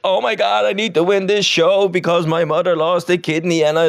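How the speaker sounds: high, overwrought sob-story voice; mock American contestant. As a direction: ham up the tearful reality-show plea. Mocking American reality contestant.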